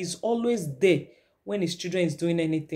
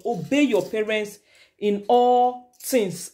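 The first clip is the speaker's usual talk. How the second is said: slow, deliberate Bible reading; scripture reading; slower than usual. A narrator's reading. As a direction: read the verse out slowly, stretching key phrases.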